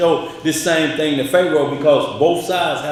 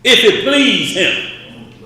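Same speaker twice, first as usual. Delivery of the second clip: slow mocking echo; 7 semitones higher, 4 dB louder, much slower than usual.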